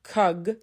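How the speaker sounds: KUG with a little neutral uh in the middle; kug, the vowel at rest; schwa between consonants. Shown as a demonstration. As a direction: connect k and g through a relaxed uh in kug. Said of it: "the little sound that appears in the middle".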